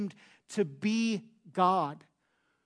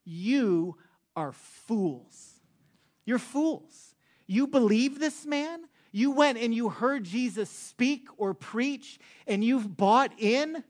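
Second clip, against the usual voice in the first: mock Pharisee scorn, pitched higher; scornful Pharisees; 6 semitones higher, 4 dB louder than usual. Pharisees scoffing at the officers, higher mocking voice. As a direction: sneer down at them as fools. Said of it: "the Pharisees basically say to the officers".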